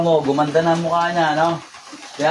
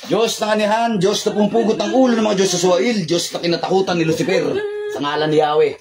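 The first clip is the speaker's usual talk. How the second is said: commanding invocation. Acted. Healer commanding the spirit to leave, solemn invocation. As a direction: intone it like an exorcist calling on God.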